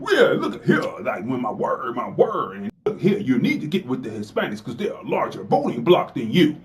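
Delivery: half-laughing minstrel mimicry; mock blackface voice. Host mocks a politician pandering on voting blocs, laughing. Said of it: "whenever you hear me talk like that".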